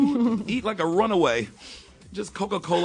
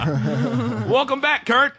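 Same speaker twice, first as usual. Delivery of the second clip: slow, stretched welcome back; drawn-out welcome; 5 semitones higher, much slower than usual. Acted. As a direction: drag it out like a host. Mock formal rewelcome.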